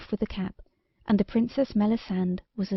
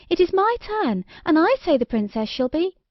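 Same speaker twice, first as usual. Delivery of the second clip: haughty fairy voice; 8 semitones higher than usual. Acted. Snake-bonnet fairy insists angrily.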